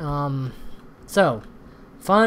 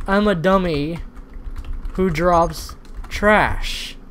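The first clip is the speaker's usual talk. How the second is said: mocking name; 3 dB louder, much slower than usual. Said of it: "Your name is".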